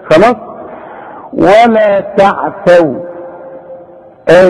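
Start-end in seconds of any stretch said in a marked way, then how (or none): 1.3-2.9 ولا تعثوا slow, tongue kept back on the ta; slow careful recitation; slow recitation with a clean ta. Shown as a demonstration. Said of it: "طلع لسانك في التاء".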